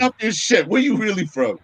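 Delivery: mock disbelief. Acts out disbelieving questioner.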